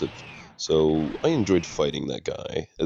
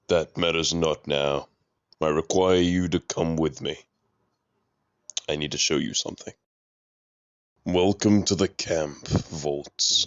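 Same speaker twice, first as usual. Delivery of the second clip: lightly lowered, pitch-shifted mysterious double; a hint of a deeper alter ego voice. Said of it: "my voice getting deeper".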